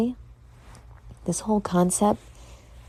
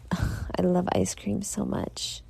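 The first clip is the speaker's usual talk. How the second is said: whispered gush; 7 dB quieter, slower than usual. Real, not acted. Gushing about ice cream.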